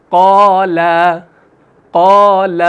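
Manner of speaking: long قال, mouth full on qaa, light on laa; heavy qaa, fine laa in قال; thick then thin alif. Shown as a demonstration. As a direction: recite قال with a rounded first aa and a thin second. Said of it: "پہلے ہم آ کی آواز نکال رہے ہیں منہ بھر کے".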